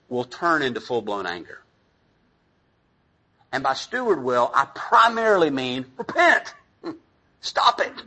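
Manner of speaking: usual speaking voice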